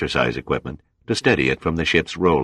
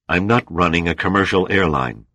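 snapped back; 3 semitones higher than usual. Acted. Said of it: "snapped back".

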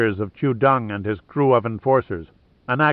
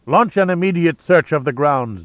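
demanding; 4 semitones higher than usual. Acted. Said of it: "demanded Lohan".

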